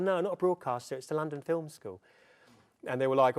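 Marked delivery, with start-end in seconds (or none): 0.0-2.0 higher-pitched South London student voice; reply in a high, youthful South London accent. Retold or imitated. Student corrects the agent, high imitated South London accent. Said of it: "I had a South London accent at the time".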